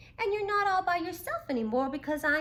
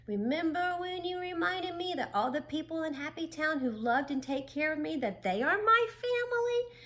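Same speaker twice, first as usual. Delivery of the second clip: louder, higher, bursting with joy; excited Frizzle; 6 semitones higher, 5 dB louder than usual. A narrator's reading. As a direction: let the happiness spill out. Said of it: "Frizzle exclaimed".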